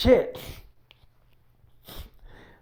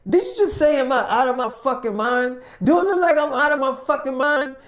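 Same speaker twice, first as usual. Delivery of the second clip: incredulous, raised, mocking echo; indignant mock; 4 semitones higher than usual. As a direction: throw his words back at him. Mike mocking Joe's accusation.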